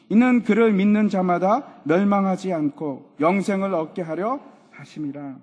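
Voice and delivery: measured, loud Bible reading; solemn projected verse recitation; scripture reading. Acted. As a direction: read the verses out for all to follow. Reads scripture aloud.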